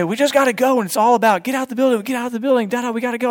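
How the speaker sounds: lightly hammed-up church slogan; mock slogan. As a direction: parody the hype crowd's chant. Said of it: "Sometimes we say".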